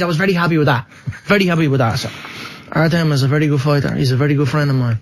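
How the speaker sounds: Dublin fighter settling down from the boast; measured McGregor interview voice; Conor McGregor. Shown as a demonstration. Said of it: "I'm still studying McGregor".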